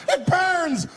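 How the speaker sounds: high, agonized acted scream; freaking out. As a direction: shriek like a man in burning pain. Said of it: "This guy was freaking out".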